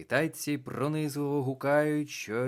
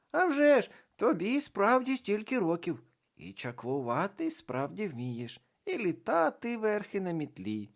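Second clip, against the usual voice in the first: higher, louder mocking girl voice; teasing girl; 11 semitones higher, 5 dB louder than usual. A narrator's reading. Карнавальна баба Яга підкидає, високий глузливий голос. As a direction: humor her like a cheeky girl.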